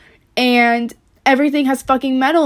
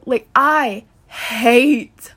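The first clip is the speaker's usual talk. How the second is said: fed up; slower than usual. Real, not acted. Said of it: "my control has gone out".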